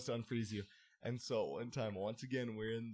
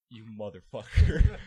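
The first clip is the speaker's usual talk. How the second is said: mock yell; 15 dB louder, slower than usual. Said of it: "he's like".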